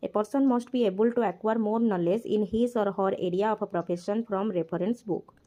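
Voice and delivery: slow, deliberate reading of the English text aloud; slow textbook reading. Acted. Teacher reads the textbook line aloud, very slowly. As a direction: read each word out slowly for the class.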